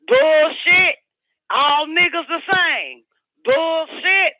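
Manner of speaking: shrill-free high pitched ranting refrain. Real, not acted. Ranting to viewers about cars, voice held high.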